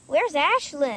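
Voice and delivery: loud, high call for a missing friend; girl calling for her missing friend. Acted. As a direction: call out looking around.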